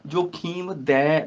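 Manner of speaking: slow ਜੋ ਖੀਮ ਦੈ with long open dai; ai vowel in ਦੈ. Shown as a demonstration. Teacher showing the vowel sign, slow open ਦੈ. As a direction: stretch ਦੈ as dai. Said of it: "ਦੱਦੇ ਨੂੰ ਦੁਲਾਵਾਂ".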